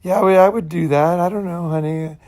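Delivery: put-on placating girlfriend. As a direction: imitate a woman reluctantly humoring her partner. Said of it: "they'll talk like that".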